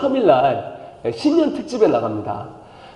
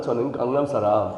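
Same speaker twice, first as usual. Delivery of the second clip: Gangnam person; 7 semitones lower, 5 dB quieter than usual. Pretend. Pastor posing as a smug Gangnam contestant, low and soft. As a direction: lower and softer, smug Gangnam voice. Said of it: "톤만 들어도 강남 사람이죠".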